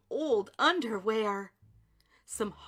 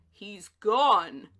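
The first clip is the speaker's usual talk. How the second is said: louder surprised declaration; declared; 3 semitones lower, 9 dB louder than usual. A narrator's reading. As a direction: announce it in shock.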